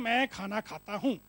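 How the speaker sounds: measured, word-by-word model sentence; slow demonstration. Shown as a demonstration. Speaker comparing Hindi with Japanese, slow measured demonstration. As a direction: space the words out slowly and evenly.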